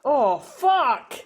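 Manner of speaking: real tears breaking through the words; choked up, voice cracking while crying. Real, not acted. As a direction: sob through it, barely getting words out. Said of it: "I don't know why I'm crying".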